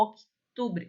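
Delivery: "outubro" with a barely heard k; faint k. Shown as a demonstration. Teacher models the faint k for students. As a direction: say "outubro" with a soft, almost silent k. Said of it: "Quase não sai".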